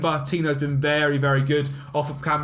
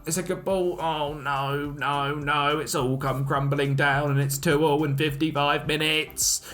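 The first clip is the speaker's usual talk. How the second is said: put-on horrendous old lady voice; slower than usual. Gamer groaning as the opponent equalises, mock old lady voice. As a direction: croak it like a fed-up granny. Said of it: "That was just my horrendous old lady voice".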